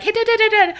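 high croaky mock singsong; croaky sick voice. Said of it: "You're like".

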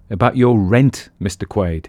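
firm and severe, no nonsense. Acted. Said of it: "he said severely".

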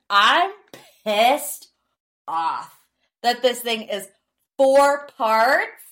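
measured, emphatic indignation with pauses between phrases; mildly pissed off. Real, not acted. Podcaster mad about a four-part reunion, mildly indignant. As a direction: break it up in exasperated chunks. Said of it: "that's why I'm mad".

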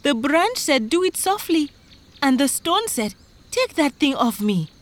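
high, urgent recital; worked-up high-pitched account; frightened farmer. Acted. Frightened farmer retells his troubles.

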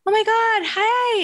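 thrilled, delighted hello across the street; playfully acted excitement; excited greeting. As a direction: greet your old self with joy. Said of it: "you were like".

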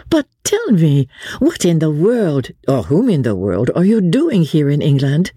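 high, animated society lady; lively lady, curious. Acted. Marguerite quizzes her friend about England, high and curious. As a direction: ask with playful, high-pitched curiosity.

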